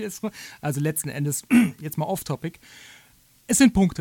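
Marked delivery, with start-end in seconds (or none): 3.5-4.0 sind punched loud and falling; stress on sind. Real, not acted. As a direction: hit sind hard, deadpan. Betont trocken die Pointe. (Betonung auf sind, laut und fallend)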